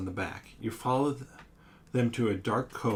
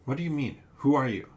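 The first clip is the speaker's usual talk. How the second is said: calling out; 3 semitones higher, 5 dB louder, faster than usual. Acted. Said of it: "call out a response".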